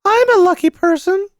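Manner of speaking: put-on a small boy declaring himself boldly; strong voice. A narrator's reading. Boy to his mother, insisting firmly, high child voice. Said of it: "he said in a strong voice".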